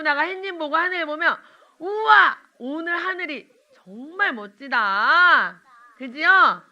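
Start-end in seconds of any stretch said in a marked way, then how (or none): 1.8-5.6 amazed wow. Pretend. Teacher models child admiring sky.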